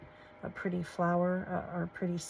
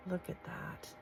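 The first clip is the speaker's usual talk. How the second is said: whispered; 9 dB quieter than usual. Real, not acted. Admiring lace to camera.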